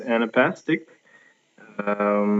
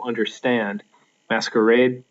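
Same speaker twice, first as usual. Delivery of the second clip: Understand with STAND leaned on, masquerade with ADE leaned on; stress on last syllable. Shown as a demonstration. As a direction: land on the final beat of each word. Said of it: "can't even say it without stressing that last syllable".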